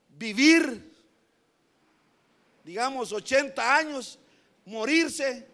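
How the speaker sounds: rising sermon fervor; fervent preaching. Acted. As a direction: pile it up with mounting fervor. Preacher building an exaggerated picture.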